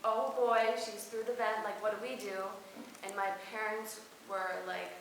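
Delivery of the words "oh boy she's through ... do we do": loud mock alarm from the table; alarmed dinner guests. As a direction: call it out like startled guests. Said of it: "everyone at the dinner table was like".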